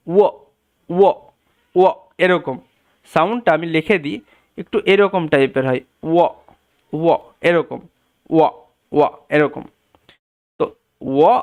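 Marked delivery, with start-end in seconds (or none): 0.1-9.6 ও rounded into a w glide; w sound demo. Shown as a demonstration. Teacher demonstrating the English w sound. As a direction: round the lips for ও. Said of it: "সাউন্ডটা হচ্ছে".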